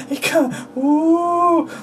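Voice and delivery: giggly innuendo. Real, not acted. Giggling innuendo about toy.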